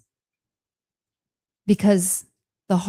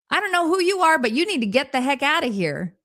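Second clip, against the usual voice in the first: wary warning; 7 semitones higher, faster than usual. Pretend. Telling the intruder voice off.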